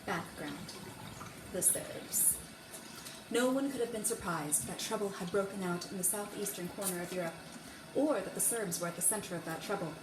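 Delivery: overdramatic book reading, big swells; dramatic reading. Acted. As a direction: read history like an epic trailer. Bad dramatic reading of history book.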